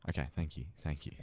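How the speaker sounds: mock storyteller. Storyteller thanking friends for silence, deep mock-solemn voice. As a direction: accept the floor in a deep voice.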